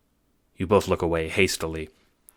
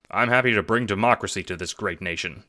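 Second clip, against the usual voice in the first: patriotic; 2 semitones higher than usual. Acted. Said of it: "says John rather patriotically".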